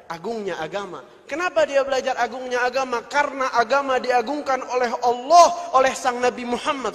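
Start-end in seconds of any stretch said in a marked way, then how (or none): 1.3-3.0 louder rhetorical question, higher on "Kenapa"; preacher raising the room; rising preach. Acted. Same point repeated as rhetorical question. 3.1-6.9 loud, ringing preacher's proclamation; fiery sermon climax; full-force preaching. Acted.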